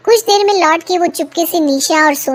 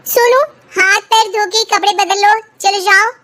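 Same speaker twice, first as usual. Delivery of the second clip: mother calling son; 6 semitones higher than usual. Acted. Mother to son coming home, higher call. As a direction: call out to the boy to go wash up.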